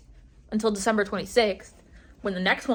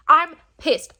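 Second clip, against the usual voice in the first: annoyed; 4 semitones higher, 5 dB louder than usual. Real, not acted.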